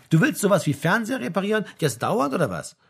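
high, amused incredulous question. A narrator's reading. Son mocking his father's new hobby, amused. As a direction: poke fun, high then dropping at the end. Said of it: "fragte Frank belustigt".

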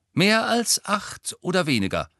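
high, loud, eager demand; pressing question. A narrator's reading. Ernie pressing Ron about study hours, eager. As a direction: press for the number keenly.

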